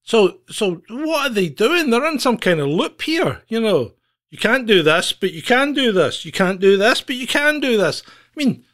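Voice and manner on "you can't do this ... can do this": mocking. Mocking contradictory rules.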